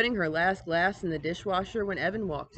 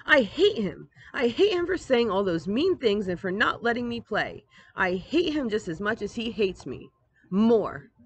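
louder, hot with anger; angry outburst; 4 semitones higher, 3 dB louder than usual. Acted. Girl telling her mom she hates her brother, angry. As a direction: spit out the hatred.

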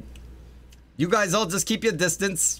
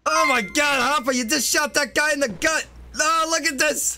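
high shocked cries; horrified; 9 semitones higher than usual. Acted. Robber horrified that the cop shot the guard, high cries. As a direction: shaken by the shooting, voice climbing.

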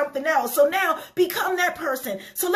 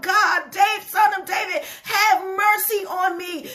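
pleading call for mercy, drawn out at the end; crying out to God. Acted. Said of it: "you've gotta cry out".

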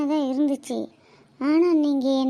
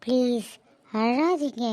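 gentle plea; slower than usual. Acted. Wife comforting crying husband.

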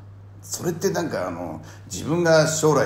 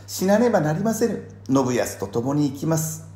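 higher wife voice; 4 semitones higher than usual. Retold or imitated. Voicing Sena in scene.

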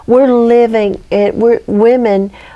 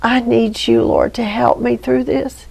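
quiet prayer; 5 dB quieter than usual. Acted. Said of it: "reach out to the Lord and say".

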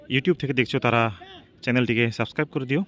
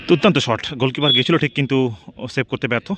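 frantic football commentary. Real, not acted. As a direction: burst out calling the shot. Goal scored in penalty shootout.

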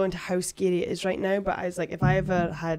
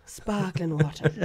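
put-on Welsh accent; 3 semitones lower, 4 dB quieter, much slower than usual. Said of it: "How does he talk?".

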